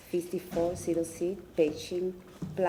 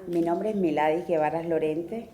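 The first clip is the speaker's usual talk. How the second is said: louder, projecting to the room; speaking up; 7 dB louder than usual. Real, not acted. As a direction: say it up so the council hears. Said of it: "Can you speak up".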